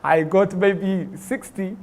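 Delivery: reliving the thrill of hearing his score; jumping-in-the-chair excitement; excited cheer. Retold or imitated. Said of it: "I started jumping in my chair".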